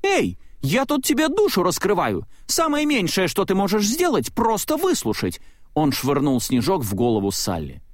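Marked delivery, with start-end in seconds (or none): 0.0-5.4 высоко, возмущённо, на взводе; обиженно возмутись, голос резко вверх; сердитый Майк. A narrator's reading. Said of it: "Майк разозлился". (Майк злится, что друг его не слушает, возмущённо и высоко)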